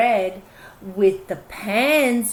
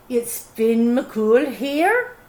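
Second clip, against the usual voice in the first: slow giant's question; much slower than usual. Acted. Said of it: "the visitor asked".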